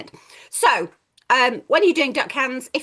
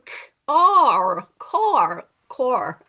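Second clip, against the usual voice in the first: car with a Scottish r; Scottish accent; 4 dB louder, much slower than usual. Shown as a demonstration. Teacher shows sounds in car, Scottish accent. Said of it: "Put a Scottish accent".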